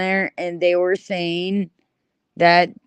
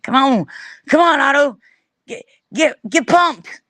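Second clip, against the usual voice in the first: mock hype; 4 semitones higher than usual. Pumping up Otto.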